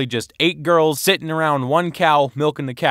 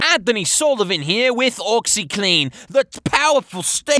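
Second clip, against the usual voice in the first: Anthony Sullivan impression; 7 semitones higher than usual. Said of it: "this guy named Anthony Sullivan".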